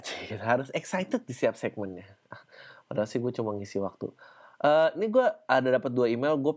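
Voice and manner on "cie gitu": low, softer sly tease; quiet teasing. Real, not acted. Host mocking his own formal question, low and soft. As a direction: murmur it like a teasing friend.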